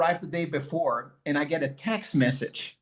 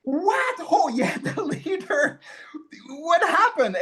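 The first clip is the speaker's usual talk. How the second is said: much higher, sarcastic echo with a laugh; mocking Claudia; 11 semitones higher than usual. Claudia mimicking her husband's forgetful answer, much higher and mocking. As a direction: throw his words back with a scornful laugh. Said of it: "She's like".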